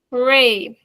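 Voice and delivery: mild cheer. Shown as a demonstration. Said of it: "If you see hooray".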